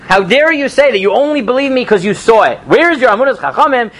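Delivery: mock indignation. An angry sage rebukes his doubting student, mock indignation. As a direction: act out an offended sage, mildly heated. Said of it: "Rabbi Yochanan got so angry at him".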